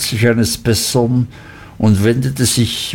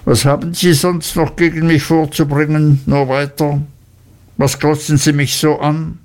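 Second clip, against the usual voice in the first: sullen; 5 semitones higher than usual. Acted. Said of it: "mit finsterem Gesicht".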